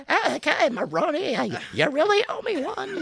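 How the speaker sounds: very high, squeaky reluctant elf. Acted. Actor giving in to the director, high elf voice. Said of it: "do the voice".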